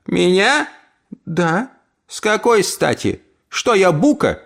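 put-on high, indignant old woman; offended old aunt. Aunt asks why Emily fears her, indignant. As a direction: take offence.

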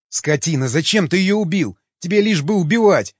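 high, loud wail, holding back tears; tearful lament. A narrator's reading. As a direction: lament accusingly, pitch rising. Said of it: "причитал Васнецов, еле сдерживая слёзы".

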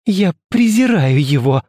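cried out in scorn; beside herself. A narrator's reading. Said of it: "вскричала Жюли вне себя".

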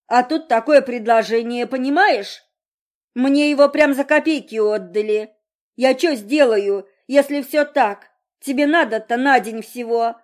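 father justifying himself, wound-up; rambling father. A narrator's reading. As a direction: talk on and on like a wound-up toy. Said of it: "говорил, как заведённый".

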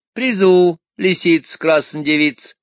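high thin fox voice; thin woman's voice. Acted. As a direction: squeak it out thinly like a vixen. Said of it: "тонким голосом говорит".

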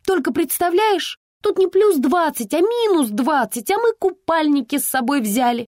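high, bubbly chatter; perky report. Acted. Carefree daughter cheerfully reports to her worried mother. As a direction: rattle it off cheerfully. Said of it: "задорно отрапортовала Вика".

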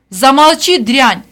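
high, loud order to shut up; furious shout. A narrator's reading. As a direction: bark her into silence. Rosa silences Vera.

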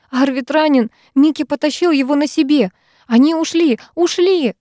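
put-on high, frantic young woman; a panicked friend, rising; Sara in panic. A narrator's reading. Sara reporting the attack to the heroine, panicked and high. Sara's voice.

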